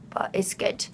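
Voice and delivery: soft whispered aside. Real, not acted. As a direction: drop to a whisper to reassure. Reassuring that a long read pays off.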